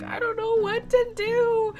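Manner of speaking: slow, high-pitched helpless whine; mock crying wail. Traveler to the comforting agent, imitated tearful wail. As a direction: draw it out like an exaggerated sob story. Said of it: "I couldn't stop crying".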